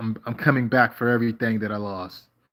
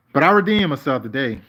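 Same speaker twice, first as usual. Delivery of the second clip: proud declaration; 4 semitones higher, 6 dB louder than usual. Real, not acted. Boasting about a good day.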